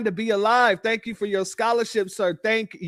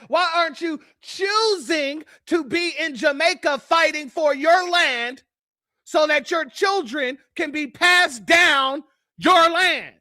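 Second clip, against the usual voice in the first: said with chest; 3 semitones higher than usual. Real, not acted. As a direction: push it out from the chest. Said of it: "say it with your chest".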